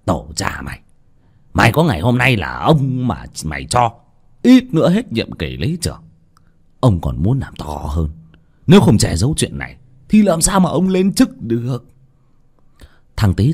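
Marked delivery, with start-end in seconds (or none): 0.0-11.9 chửi rồi cao giọng dọa; gắt lên ra lệnh; quát mắng. Acted. (cụ Lý đập bàn quát thằng Tý)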